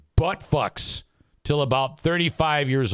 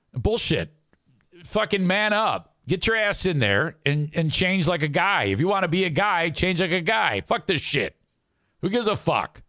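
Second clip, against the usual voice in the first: imagined tough talk; 5 semitones higher than usual. Retold or imitated. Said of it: "That's what I would say".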